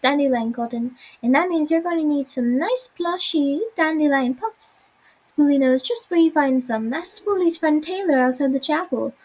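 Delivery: lightly voiced cheerful sidekick; friendly little creature chattering on; eager little Spoolie.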